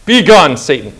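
forceful dismissal, falling away; commanding rebuke. Acted. Jesus answers the devil's temptation, commanding rebuke. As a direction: punch the opening words, then drop. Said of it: "Jesus answered the devil like this".

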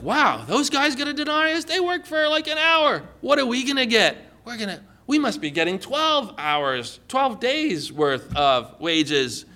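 a lightly voiced hopeful laborer; astonished worker. Listener imagines bigger pay.

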